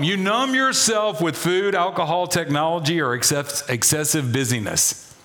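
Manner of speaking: hurried reading that tumbles downward; read too fast. Real, not acted. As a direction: run through the list without letting it land. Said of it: "I read that too fast".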